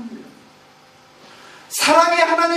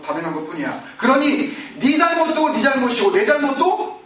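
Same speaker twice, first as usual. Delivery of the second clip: higher, indignant voice of a man passing the blame; defensive blame-shifting; 4 semitones higher than usual. Acted. Preacher voicing a sinner who blames others, defensive. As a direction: insist it was never your fault.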